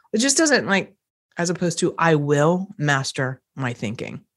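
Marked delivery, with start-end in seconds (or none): 2.0-4.2 powerful, definite. Shown as a demonstration. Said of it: "there's just no power that even comes with this".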